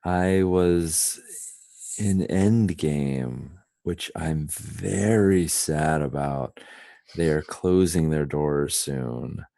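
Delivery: slow, drawn-out speech. Shown as a demonstration. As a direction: talk very slowly. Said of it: "just very slowly".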